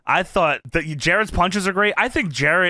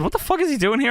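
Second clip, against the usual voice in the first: high, baffled question; can't believe his eyes; incredulous yelp; disbelieving outburst; 8 semitones higher, faster than usual. Retold or imitated. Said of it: "I said".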